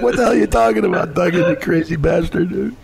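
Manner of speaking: stunned, what-is-this protest; confused wrestler shouting back; baffled outburst. Retold or imitated. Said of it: "I'm like".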